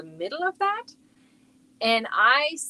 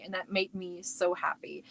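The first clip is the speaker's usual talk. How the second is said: hushed confiding whisper; 6 dB quieter than usual. Real, not acted. Mom telling viewers her joy, whispered. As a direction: share it like a little secret.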